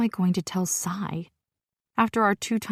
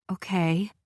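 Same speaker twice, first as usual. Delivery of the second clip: calm. Acted. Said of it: "she says calmly".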